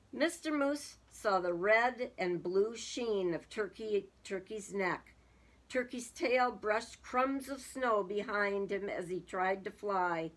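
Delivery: measured picture-book reading; storybook narrator; story narration. A narrator's reading. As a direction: read it out as a story for children. Reads a story aloud.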